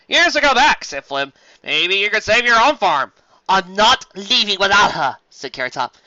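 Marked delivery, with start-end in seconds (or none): 0.1-0.8 higher, louder scheming pony; sly taunt. Acted. Flim taunts Carrot Top, sly and loud. 1.6-5.2 louder, slow and firm; defiant. Acted. Carrot Top refuses to leave the foal, defiant.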